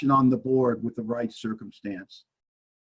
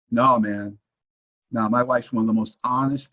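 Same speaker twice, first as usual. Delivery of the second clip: answering himself; 3 semitones lower than usual. Retold or imitated. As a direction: drop the pitch and refuse firmly. Acts his answer to inner voice.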